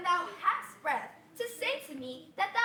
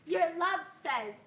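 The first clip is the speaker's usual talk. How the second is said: mocking the nurse. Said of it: "How oddly thou repliest".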